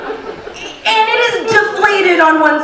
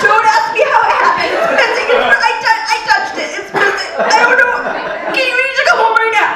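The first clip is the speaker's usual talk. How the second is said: frantic; faster than usual. Retold or imitated.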